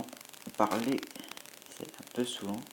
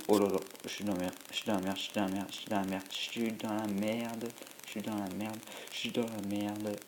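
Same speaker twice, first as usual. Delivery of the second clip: panicked muttering; faster than usual. Real, not acted. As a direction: mutter it over and over in real dismay as the game goes wrong. Losing his cells in the game.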